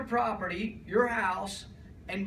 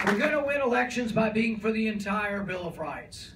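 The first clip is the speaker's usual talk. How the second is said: rally speech; 4 dB louder than usual. Real, not acted. Rally crowd, rousing line.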